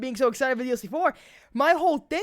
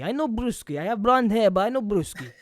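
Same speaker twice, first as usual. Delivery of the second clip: mock broken Russian accent; imitating a terrible Russian accent; bad Russian accent; 5 dB louder than usual. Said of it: "that's legitimately what it sounded like".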